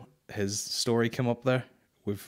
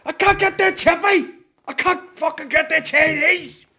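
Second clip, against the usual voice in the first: mocking a protester; 10 dB louder than usual. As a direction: rant like a fed-up bigot stuck at a roadblock. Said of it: "You're like".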